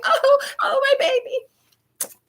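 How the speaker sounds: very high, slow wailing coo; over-the-top mother. Retold or imitated. Mother hugging fake-crying son, very high and slow. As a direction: ham up the doting mom. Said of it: "She's so extra".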